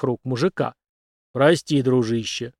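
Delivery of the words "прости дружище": embarrassed grumble. Acted. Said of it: "смущённо проворчал мужчина".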